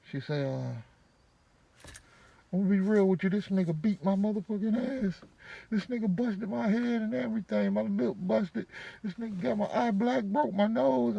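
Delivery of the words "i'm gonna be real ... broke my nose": woman's voice. Retold or imitated. Voicing Shell on the phone.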